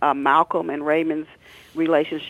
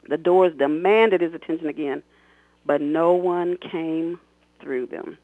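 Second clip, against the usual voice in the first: expressive read-aloud of her own novel; story narration; 2 semitones higher than usual. A narrator's reading. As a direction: read it like an audiobook, voicing the characters. Author reads novel excerpt aloud.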